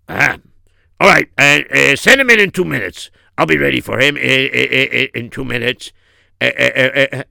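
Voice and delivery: loud start, stammering and sinking; boss in the wrong voice. Acted. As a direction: stammer instructions as a busy boss. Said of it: "You used my voice".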